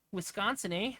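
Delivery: playful put-on Midwest accent. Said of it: "I gotta talk like this".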